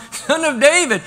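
high, loud call; retold calling out. Blind beggar stopping Jesus in his tracks, retold call. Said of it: "He hears something he hasn't heard".

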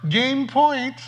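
put-on high, bright call from a sweet old lady; calling game point in a high old-lady voice; cheerful old lady. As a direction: announce it in a chirpy granny voice. Phyllis announces game point.

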